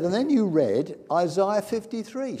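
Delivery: high, loud, mounting excitement; imitated breathless-with-wonder declaration; elated testimony. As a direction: retell it as an amazed witness, voice lifted high. Healed woman telling her vision.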